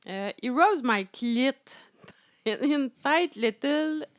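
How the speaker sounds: giggling through the English lines; breaking into laughter mid-read; laughing while reading. Real, not acted. Reading a racy passage to her co-host, giggling.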